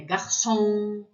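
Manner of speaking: garçom stressed on the last syllable, gar-SOM; final-syllable stress. Shown as a demonstration. Teacher models end-stressed French words, final stress. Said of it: "é no final".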